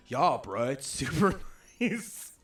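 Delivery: loud, drawn-out American bro voice; hammed-up American bro, laughing through it; mock American accent. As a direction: imitate him overdoing American, stretching the end. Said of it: "I can do an American accent".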